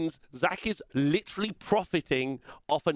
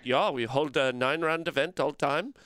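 mock Swedish accent, lightly done; a jokey Swedish-accented line. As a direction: put on a hammy Swedish accent for the Swedes. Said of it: "with the accent".

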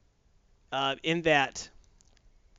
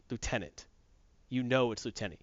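grumpy lieutenant; 3 semitones lower, 5 dB quieter than usual. Retold or imitated. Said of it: "she's like".

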